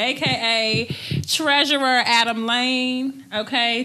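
announcer-style hype; hype intro. Real, not acted. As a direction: build up the guest like a star.

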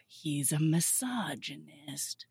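slow, drawn-out mock indignation; hammed-up appalled complaint; mock outrage. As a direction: stretch each accusation out in exaggerated dismay. Voicing her outraged inner reaction.

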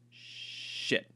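whispered under breath; whispered curse. Acted. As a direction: mutter it in defeat. The magic fails.

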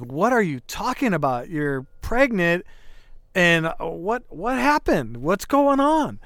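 incredulous, increasingly high-pitched questioning; freaking out. Retold or imitated. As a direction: re-enact frantic questions, pitch rising toward the end. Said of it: "freaking out of my head".

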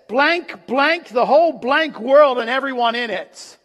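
loud, emphatic quoted curse; bitter curse. Retold or imitated. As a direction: punch out each censored word like an oath. Quoting Fields' bitter last curse.

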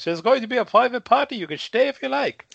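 put-on high, stiff German accent. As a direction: imitate an old German bar owner. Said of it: "in a German accent".

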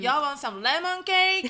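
slow, loud, laughing Texan drawl; Southern drawl. Acted. Showing off Texan speech, laughing Southern drawl. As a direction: drawl it out like a Texan offering cake. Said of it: "「You all」 っていうのはもうシグニフィカントワードである".

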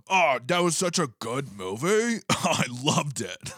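mock suave dating-app charmer; suave macho voice. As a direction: play the cool macho guy on Tinder. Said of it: "Was it because of the voice?".

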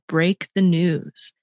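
"Break the news" said at half speed, each word set apart; slow, weighted repeat. Shown as a demonstration. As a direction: let the coach slowly hand back "Break the news". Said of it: "that was a coach who helped me".

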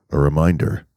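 lightly voiced PA announcer, stern and deliberate; voice of God. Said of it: "the voice of God got on the microphone".

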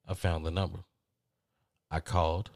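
ordinary talk, nothing marked

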